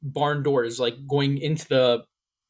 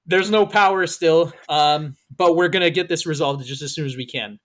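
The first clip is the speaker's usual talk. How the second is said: laughing announcer; 4 dB louder than usual. Retold or imitated. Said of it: "the announcer comes on".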